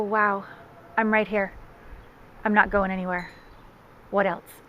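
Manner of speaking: be present, don't fix; settled, unhurried comfort; calm presence. Shown as a demonstration.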